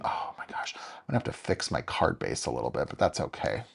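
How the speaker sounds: whispered, low muttering. Real, not acted. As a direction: whisper it to yourself. Whispered dismay at mistake.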